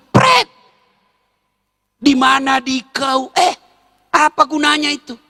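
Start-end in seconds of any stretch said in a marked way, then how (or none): none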